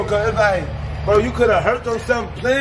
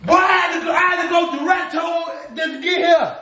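raised, heated voice; angry yelling; 4 semitones higher than usual. Real, not acted. Boyfriend yelling at girlfriend after the prank, angry. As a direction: shout him down in real anger.

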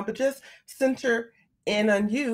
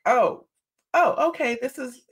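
mock surprise; 6 semitones higher than usual. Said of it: "I'm talking to myself now".

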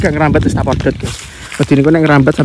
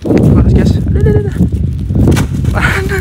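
mouth full of hot food. Real, not acted. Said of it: "Aduh, panas".

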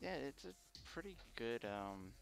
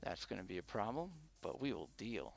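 muffled behind a mask; talking through a mask; through a face mask. Real, not acted. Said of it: "I'm a bit muted behind this mask".

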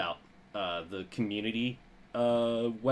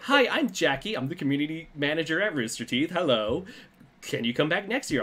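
bubbly and fast, much higher; overacted anime dub; 4 semitones higher, 3 dB louder than usual. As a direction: gush like an ecstatic fan. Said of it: "she's just ecstatic".

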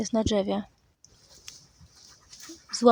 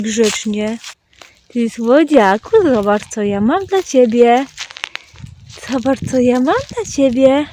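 pet talk; 2 semitones higher, 12 dB louder than usual. Real, not acted. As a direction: coo and praise the dog, calling out to it. Loud doting talk to dog. (głośne, czułe mówienie do psa)

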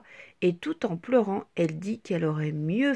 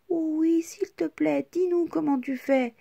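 higher begging voices; pleading; 6 semitones higher than usual. A narrator's reading. The friends beg Petite Tache, higher pleading. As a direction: beg her eagerly. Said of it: "supplient ses petits copains".

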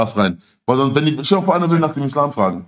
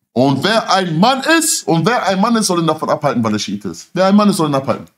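shouting a hot-headed challenge; berserk rage; 4 semitones higher than usual. Retold or imitated. Yelling challenge in mosque.

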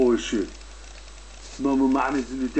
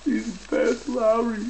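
much higher and slow; high silly voice; 10 semitones higher, slower than usual. Acted. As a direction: stretch it out in a squeaky high voice. Put-on high voice.

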